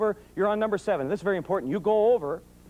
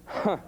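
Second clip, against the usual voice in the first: grunt. Shown as a demonstration. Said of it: "So let's try that".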